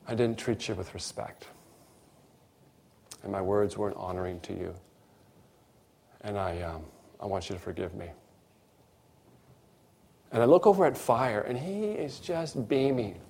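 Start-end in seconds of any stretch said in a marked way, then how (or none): 0.1-8.1 soft, low, contrite; retold humble apology. Man asking the woman at the counter to forgive him, humbly. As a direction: lower the voice and apologise sincerely.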